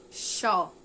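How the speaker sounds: "Xó" alone, with open o; isolated sound. Shown as a demonstration. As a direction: sound out "Xó" as one separate syllable. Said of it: "Outro som". ("Xó" isolado, com o aberto)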